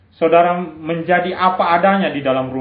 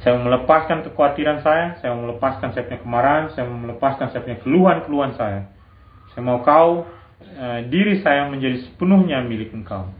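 soft spoken prayer; 6 semitones lower than usual. Pretend. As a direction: lower and softer, like praying humbly to God. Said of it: "kau perlu datang kepada Tuhan". (doa yang lirih dan tulus)

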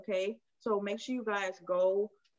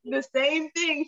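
slow, louder insistence on "the same thing"; insisting it's the same; 6 semitones higher, 6 dB louder, slower than usual. Real, not acted. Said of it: "You saying".

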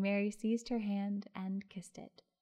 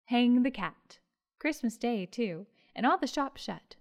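loud, higher angry cry; stormy outburst; 3 semitones higher, 6 dB louder than usual. Acted. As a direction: storm at the cat, loud and up high. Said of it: "stormed and cried".

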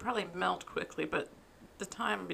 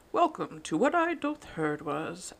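town crier; 8 dB louder than usual. Acted. Mock medieval podcast opening.

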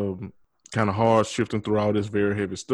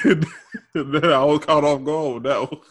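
laughing; 4 semitones higher, slower than usual. Real, not acted. Laughing at callback.

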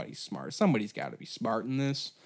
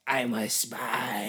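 deadpan spy; much slower than usual. Retold or imitated. Spy confessing in comic story.

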